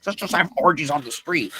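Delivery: high, hammed-up party voice; voicing wild Greeks; playful Greek voice.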